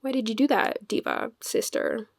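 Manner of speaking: soft, breathy diva reader; mock hushed why, diva sister; hushed question to her diva self. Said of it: "Be like".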